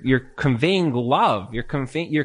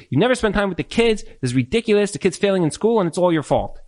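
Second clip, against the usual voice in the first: higher, scolding wife's attack; a wife snapping at her husband, higher and accusing; mock accusing wife; 5 semitones higher than usual. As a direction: nag him like an exasperated wife. Wife attacking husband, acted quote.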